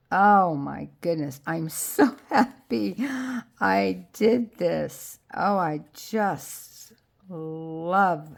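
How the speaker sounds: loud, delighted gush over the result; excited. Real, not acted. Crafter gushing to viewers over her project, excited. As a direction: burst out with real joy.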